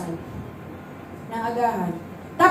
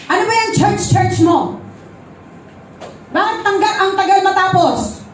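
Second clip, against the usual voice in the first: higher-pitched mock exasperation; retold angry husband; 4 semitones higher than usual. Husband scolding his wife over church, retold angry. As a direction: act out a fed-up husband's complaint. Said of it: "Galit na galit yung asawa".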